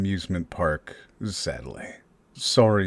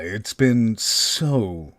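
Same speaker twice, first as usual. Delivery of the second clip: drawn-out taunt; much slower than usual. Acted. Kidnapper taunts Kaiba on phone.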